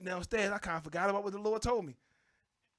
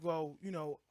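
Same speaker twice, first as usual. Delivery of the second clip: higher-pitched wife, building to a sharp demand; mock wife voice; 5 semitones higher than usual. Husband imitating his wife grilling him, mock higher voice. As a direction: mimic the suspicious wife pressing him.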